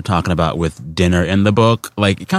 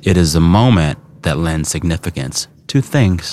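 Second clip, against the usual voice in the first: quote reading. Acted. Reads out quote from book.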